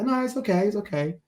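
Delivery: imitating a kind man, high and soft; sweetly reassuring. Man waving off help with spilled tea, sweetly reassuring. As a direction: retell his gentle, high-pitched reassurance. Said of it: "He's really sweet about it".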